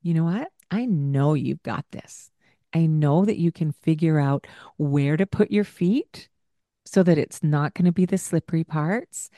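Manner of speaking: even, unhurried reassurance; gently reassuring caregiver; calm, normal tone. Retold or imitated. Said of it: "I just calmly, with a normal tone of voice".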